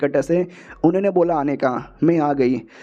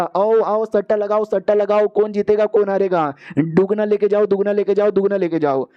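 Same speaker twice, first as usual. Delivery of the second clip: chanting bookie drumming up bets; betting hawker's call; 3 semitones higher than usual. Acted. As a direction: call out to the crowd like a market tout. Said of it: "जहाँ पे announcement हो रहा था".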